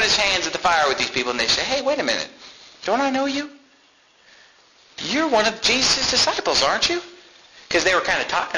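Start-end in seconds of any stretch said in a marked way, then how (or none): 1.6-7.0 raised, pointed accusing voice; accusing bystander. Retold or imitated. Bystander at the fire confronting Peter, accusing. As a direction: call Peter out, higher and pointed.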